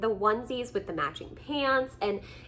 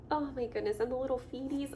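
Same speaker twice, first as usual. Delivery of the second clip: ordinary talk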